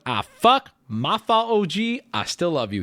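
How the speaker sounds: backtrack hastily as the guy caught out; imitated backpedaling. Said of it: "This is him backpedaling".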